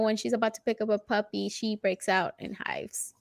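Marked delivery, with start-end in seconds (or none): 1.5-3.1 hushed sad whisper. Real, not acted. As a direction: drop to a whisper. Sad story of allergy.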